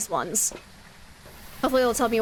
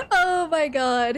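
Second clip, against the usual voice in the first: laughing; 3 semitones higher, much slower than usual. Real, not acted. Laughing reaction.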